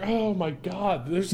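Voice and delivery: squeaky baffled voice; high-pitched disbelief. Real, not acted. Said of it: "It doesn't make sense".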